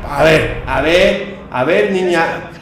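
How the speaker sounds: loud, urgent panicked urging; hurry, like something is right behind; being chased. Real, not acted. Chasing girl in horror game.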